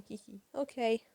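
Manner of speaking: mock little giggle before agreeing; spoken hee-hee, lightly acted; giggly. Tails accepting the adventure from his brother, giggly. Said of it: "With a laugh".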